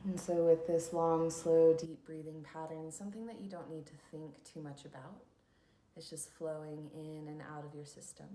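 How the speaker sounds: unhurried instructions for settling into stillness; guided meditation. Acted. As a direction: lead listeners into calm, leaving long pauses.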